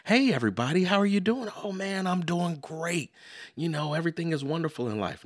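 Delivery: mock upbeat small talk between friends; overly cheerful greeting. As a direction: ham up a sunny everything's-great catch-up. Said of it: "that's not how it sounds".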